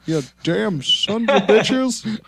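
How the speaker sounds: put-on grumpy old geezer; old man voice. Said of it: "best old man voice".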